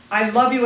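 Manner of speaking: "love" leaned on as the contrast word; weight on "love", not on I or you; stress on LOVE. Shown as a demonstration. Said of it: "as opposed to hating you".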